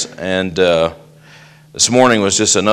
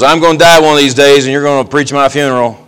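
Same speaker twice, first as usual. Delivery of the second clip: put-on old lady's voice; 4 semitones higher, 4 dB louder, faster than usual. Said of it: "She goes".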